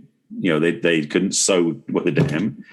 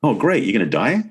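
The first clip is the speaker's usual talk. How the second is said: sarcastic retort; 4 semitones higher than usual. Pretend. Mocking a love song lyric.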